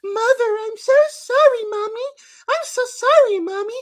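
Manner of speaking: high, wailing sob-voice mockery; hammed-up mock sobbing at the mother's bedside; mock crying. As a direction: whine it like a hammed-up weepy daughter. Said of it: "being like".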